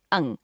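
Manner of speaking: "अंग" with the sound resonating in the nose; nasal anusvara. Shown as a demonstration. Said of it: "इसका उच्चारण नाक से होता है". ("अंग" का नाक से उच्चारण)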